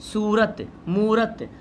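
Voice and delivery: stretched "oo" in सूरत and मूरत; drawn-out long vowel. Shown as a demonstration. Teacher shows stretched reading, long ऊ in सूरत, मूरत. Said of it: "खींच के पढ़ रहे हैं".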